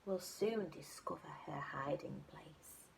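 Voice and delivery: whispered clue. Acted. Little monkey whispering a clue to the butterfly. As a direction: hush it like a secret.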